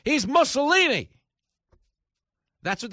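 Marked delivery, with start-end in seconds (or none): 0.0-1.1 mock outraged pundit, rising shrill at the end. Host mocking a pundit on book bans, in a sneering voice. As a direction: sneer it like a smug TV historian. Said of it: "we go".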